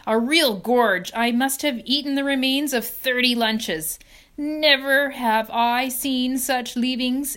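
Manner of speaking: high, loud, relishing each word; gloating. Acted. Rat boasting to farm friends, loud and gloating. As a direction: savour the memory of the feast.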